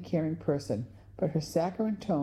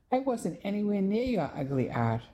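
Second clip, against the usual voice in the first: sharp retort; 5 semitones higher than usual. Acted. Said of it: "Gloria shot back".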